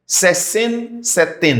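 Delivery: slow, careful sesenta e sete; teacher pace; slow demo. Shown as a demonstration. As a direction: spell out each syllable of sesenta e sete. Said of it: "slow demo of number".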